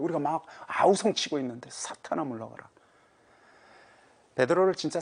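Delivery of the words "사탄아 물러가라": normal talking voice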